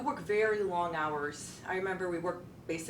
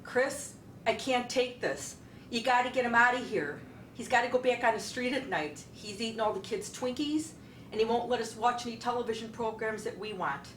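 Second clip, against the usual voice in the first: higher, louder pleading complaint; fed-up wife on the phone, pitched up and loud; exasperated wife; 5 semitones higher, 4 dB louder than usual. Retold or imitated. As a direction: beg him to take the husband back, a bit frantic. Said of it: "Kathy called me up and said".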